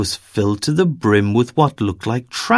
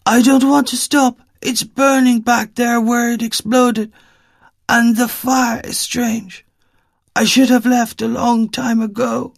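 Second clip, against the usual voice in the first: put-on much higher voice with an Eastern European accent; anxious old woman, Eastern European accent; 11 semitones higher than usual. Frightened woman explaining why she keeps walking, Eastern European accent. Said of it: "thick Eastern European accent in her voice".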